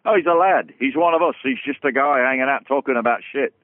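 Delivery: chirpy pub-mate enthusiasm that fades back to plain; lightly hyped fan praising a mate; cheerful praise. Retold or imitated. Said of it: "That's what I always said".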